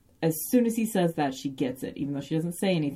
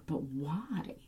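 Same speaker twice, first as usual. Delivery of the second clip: mild imitated crying; 3 semitones higher, slower than usual. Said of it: "she's kind of crying a little bit".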